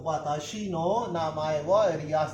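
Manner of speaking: each syllable drawn out; slow Japanese demo. Shown as a demonstration. Teacher to students, the Japanese sentence slowly. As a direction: say it slowly for learners to copy. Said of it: "pronunciation को अच्छी तरह याद कर लें".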